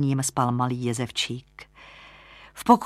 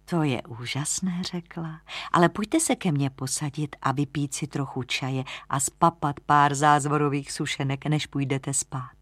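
doting landlady. Acted. (tiše vlídná bytná)

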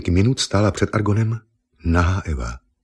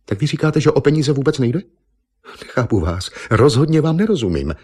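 put-on higher, incredulous young woman; baffled Eva; 8 semitones higher, 3 dB louder than usual. Eva not understanding the painter, higher and incredulous. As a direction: push back in disbelief.

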